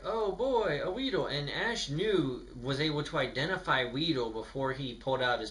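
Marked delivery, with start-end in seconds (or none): 0.0-1.3 excited Ash. Retold or imitated. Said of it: "Ash is like".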